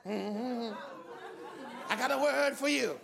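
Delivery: drawn-out preacher cadence with long pauses; Black preacher style. Acted. Preacher playfully asking for a word to land, Black preacher style. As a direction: stretch the key words like a Black preacher. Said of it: "help me preach like a black man".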